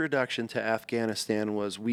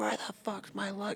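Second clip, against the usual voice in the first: shrill, very high, hotheaded screaming; 10 semitones higher, 7 dB quieter than usual. Retelling a hothead in the airport over lost luggage: imitating someone screaming.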